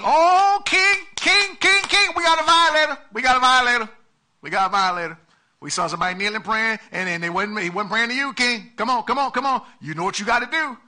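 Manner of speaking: high, loud, urgent tattling; tattling haters. Retold or imitated. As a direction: shout it out like informers running to the king.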